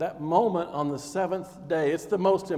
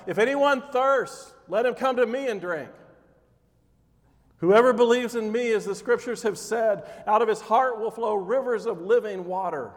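crying out; 3 semitones higher than usual. Retold or imitated. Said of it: "stood up and cried out".

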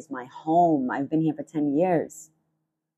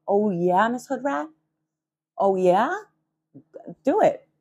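taunting dare; 4 semitones higher than usual. Retold or imitated. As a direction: challenge her to try it. Daring the neighbour.

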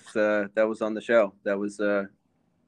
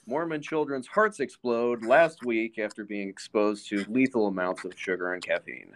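mock news report. Co-host invents a headline about exploding hearts, mock news report. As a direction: deliver it like a grave bulletin.

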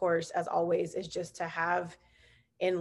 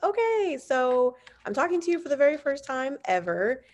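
imitating an awkward, over-polite opener; mock first-meeting greeting; 7 semitones higher, 3 dB louder than usual. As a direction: lift it high as if greeting a stranger. Imitates herself greeting unfamiliar guests.

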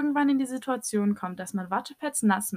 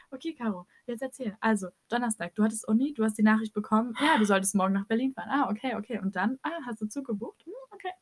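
interviewer voice; faster than usual. Pretend. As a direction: play a calm interviewer quizzing her friend. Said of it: "die Interviewerin jetzt spielen".

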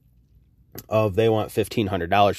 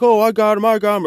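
much higher, louder mock of the small woman; mocking squeaky owner; 12 semitones higher, 6 dB louder than usual. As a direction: mimic her overconfident squeak.

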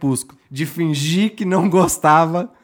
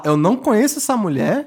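laughing, hammed-up denial; panicked denial; 2 semitones higher than usual. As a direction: deny her through laughter. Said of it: "prontamente falar".

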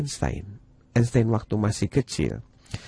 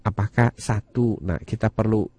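put-on reading to a toddler. Parent coaxing child to find solution.

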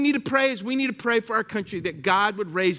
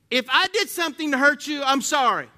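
fake apology; 5 semitones higher, 3 dB louder than usual. Shown as a demonstration. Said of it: "Don't ever say".

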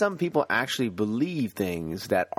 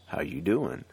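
inner Jersey voice, lower; New Jersey accent; 6 semitones lower than usual. Shown as a demonstration. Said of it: "that New Jersey accent".

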